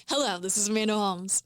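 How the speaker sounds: "Hello, this is Amanda Holmes" low, calm and firm; settled practice greeting; speaking down. Shown as a demonstration. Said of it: "I would start it speaking down".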